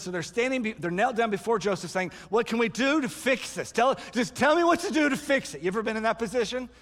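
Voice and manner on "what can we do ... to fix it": higher, insistent imitated plea; urgent pleading. Kneeling brothers begging Joseph, urgent pleading.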